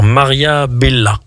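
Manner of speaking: BELLA ending in an A; mispronounced name. Real, not acted. Co-host misnames the actress, mispronounced Bella. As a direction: say Bella with a final "la".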